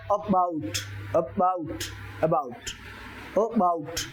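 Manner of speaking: about with a weak ए and stressed बाउट; stress on bout. Shown as a demonstration. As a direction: swallow the a, punch bout. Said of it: "बाउट पे उसने stress ज्यादा लगाया".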